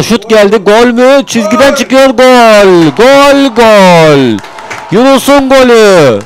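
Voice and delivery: screaming GOAL, high and loud; goal shout. Real, not acted. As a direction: burst out as the ball crosses the line. Goal scored, commentator erupts.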